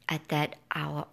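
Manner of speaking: ordinary delivery, nothing marked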